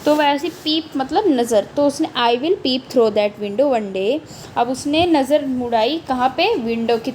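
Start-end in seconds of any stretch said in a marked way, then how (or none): 2.2-4.2 slow poem reading. Acted. Rereads poem line.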